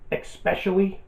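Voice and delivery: especially said as "ex-specially" with an X; mock the "ex-specially" mistake; wrong especially. Shown as a demonstration. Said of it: "There's no X in especially".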